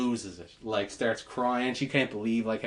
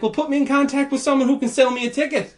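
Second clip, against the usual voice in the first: much higher and louder demand; high, strained raised-voice demand; exasperated demand; 12 semitones higher, 7 dB louder than usual. Retold or imitated. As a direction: demand it, fed up. Retold angry demand on phone.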